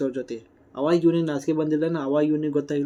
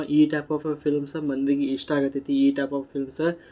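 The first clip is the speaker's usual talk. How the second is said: slow emphasis; much slower than usual. Real, not acted. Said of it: "slow emphatic repeat".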